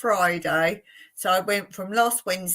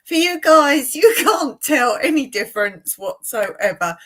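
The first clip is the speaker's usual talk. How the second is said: talking through a real laugh; amused, laugh breaking into the words; 5 dB louder than usual. Real, not acted. Host greeting viewers from home, laughing at how odd it feels. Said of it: "I'm laughing".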